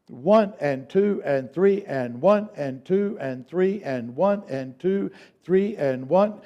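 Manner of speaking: slow, even count. Shown as a demonstration. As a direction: count it out slowly. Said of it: "Now let's speed it up".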